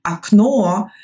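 "окно" said a-KNO, stress on the second o; first o of "окно" as a, stressed final o; reduced first vowel. Shown as a demonstration. Teacher giving an example word, "окно" pronounced a-KNO. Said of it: "because the second o is stressed".

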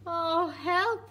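high squeaky cry for help. Acted. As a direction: squeak it out in alarm. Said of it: "squeaked Baby Bear".

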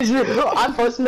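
talking through laughter; laughing. Real, not acted. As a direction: say it while laughing. Laughing after funny moment.

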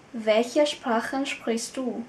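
slow, clear repeat of the question; slow model sentence. Shown as a demonstration. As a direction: model it again slowly.

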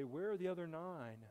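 gentle mock lament of a forgotten Savior; lightly voiced hurt Lord. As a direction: let the Lord sound quietly wounded. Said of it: "the Lord would say".

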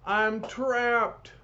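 high, drawn-out wail; panic. A narrator's reading. Khrushchev is cornered by the tank, panicking. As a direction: cry it out in mock despair. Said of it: "Such panic from the mightiest man".

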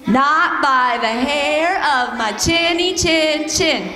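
slow practice take of the pig refrain; practice pig line. Shown as a demonstration. Leading the kids in practice, slow and drawn out. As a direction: lead the kids through it slowly. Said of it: "Let's practice".

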